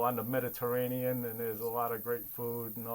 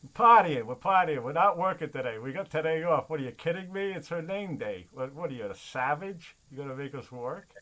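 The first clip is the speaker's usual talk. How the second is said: mock party-goer bravado; 5 dB louder than usual. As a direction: play the indignant reveller who refuses to work. Mock relatives refusing to work.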